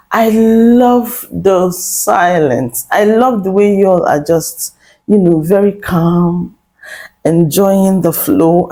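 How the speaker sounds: slow, drawn-out sarcastic praise; slow mock contentment; sarcastic savoring. Real, not acted. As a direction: savor each word mockingly. Sarcastic praise of their silence.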